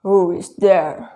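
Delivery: lightly voiced wolf in disguise; big wolf voice. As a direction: growl it out slowly as the wolf. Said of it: "the big voice of the wolf".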